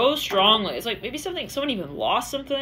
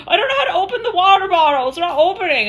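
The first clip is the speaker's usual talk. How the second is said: high, louder mock helpless voice; helpless whine; 9 semitones higher, 6 dB louder than usual. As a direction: play it up as hopelessly stuck. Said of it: "somebody was like".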